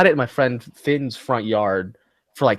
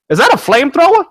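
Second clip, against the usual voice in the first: high, loud mock voice of the ex-cop neighbor; imitating the neighbor; 9 dB louder, faster than usual. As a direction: ape the neighbor with a much higher, louder bark. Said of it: "'Cause that's how he talks".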